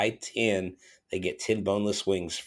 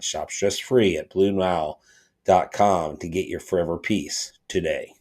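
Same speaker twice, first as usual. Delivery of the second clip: measured, evenly pitched sponsor read; scripted host-read commercial; podcast ad read. Acted. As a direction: read the sponsor copy with deliberate phrasing. Reads a sponsor ad.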